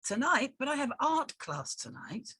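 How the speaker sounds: surprised. Acted. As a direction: caught off guard by the news. Shocked at sudden night shift.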